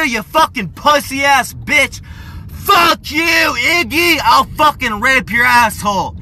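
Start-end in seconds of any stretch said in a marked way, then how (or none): 2.5-6.2 yelled curse with a crack; angry shouting. Real, not acted. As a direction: shout it in real anger. Angry rant shouting insults.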